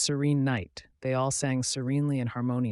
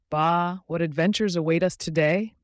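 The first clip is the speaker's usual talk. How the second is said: higher, louder curious sheep; 5 semitones higher, 8 dB louder than usual. Acted. Sheep wondering about the day, curious. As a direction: wonder aloud eagerly. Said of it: "the sheep wondered curiously".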